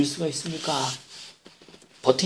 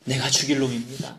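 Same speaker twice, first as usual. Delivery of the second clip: retold sob; 4 dB quieter than usual. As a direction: imitate a prisoner's confession, understated. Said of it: "엉엉 울기 시작을 하더랍니다". ('죽일'을 낮고 조용히 흐느끼듯)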